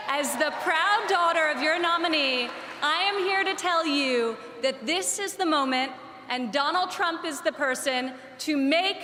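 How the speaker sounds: rally the crowd; rallying shout. Real, not acted.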